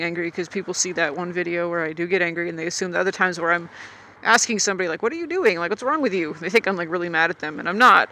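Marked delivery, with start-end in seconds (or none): 5.0-6.3 incredulous. Retold or imitated. Rider asking somebody in traffic what they are doing, incredulous. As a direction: ask it in mild disbelief, without anger. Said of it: "I'm, like, incredulous or whatever".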